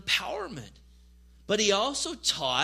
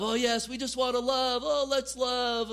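mock gushing; 3 semitones higher than usual. Mocking critics' view of love.

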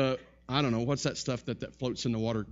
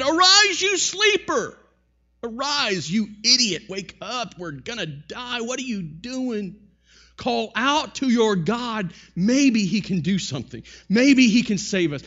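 high, loud panicked yell to wake him; a ship captain screaming over the storm; frantic captain shouting; 8 semitones higher, 7 dB louder than usual. Retold or imitated. Captain shouts at sleeping Jonah.

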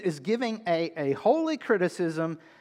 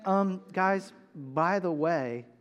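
nonchalant; slower than usual. Shown as a demonstration. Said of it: "not nonchalantly saying".

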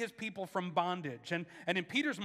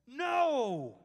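sharp, higher insistent no; insisting no; 6 semitones higher, 5 dB louder than usual. A narrator's reading. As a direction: cut him off with a firm no. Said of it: "Peter insisted".

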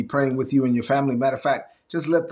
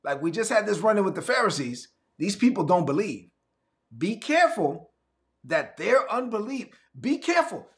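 higher, insistent caution; urgent warning; 5 semitones higher than usual. Retold or imitated. Jesus warning his team, urgent higher plea. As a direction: plead with them to watch out. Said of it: "He was saying".

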